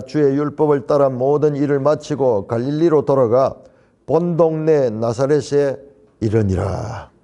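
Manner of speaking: measured, level-pitched Bible reading; scripture reading. Acted. Preacher leading the congregation in responsive reading, measured scripture reading. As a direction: read the verse out evenly, dropping at the close.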